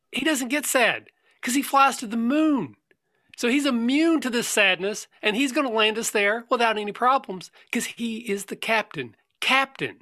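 high, bold captain voice; heroic captain. Acted. Player hyping the captain to the group, high and proud. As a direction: puff up like a proud hero pilot.

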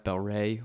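"Ray" with a long a, no v; Ray pronunciation. Shown as a demonstration. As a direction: say "Ray" to rhyme with day. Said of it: "What do you think?".

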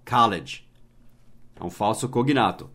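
normal talking voice

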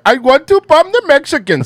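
high, loud gung-ho politician voice; mocking Vivek. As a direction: bark it like an eager warmonger. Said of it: "That's how he talks".

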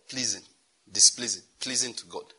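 "Pleasing", "displeasing", "pleasing" each set apart by pauses; measured, deliberate weight on "pleasing" and "displeasing"; emphatic repetition. Shown as a demonstration. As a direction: land firmly on each "pleasing", separately. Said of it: "let me emphasize that word".

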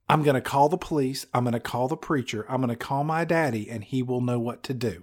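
a hint of a fretting husband; quietly flustered spouse; mock panicked husband. Playing a fretful husband.

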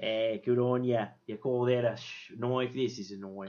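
lightly voiced Aussie quote. Crocodile Dundee quote bit.

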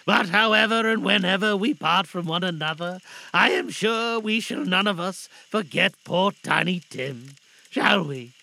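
loud, heartfelt appeal; earnest father Bob. Acted. Father asking family to remember Tim, earnest appeal. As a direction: address them with swelling feeling.

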